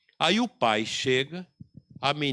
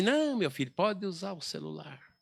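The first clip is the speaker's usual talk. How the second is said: higher, soft coaxing mother voice; indulgent mother; 6 semitones higher, 5 dB quieter than usual. Retold or imitated. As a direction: coo it like a spoiling mom. Soft mother undermines father.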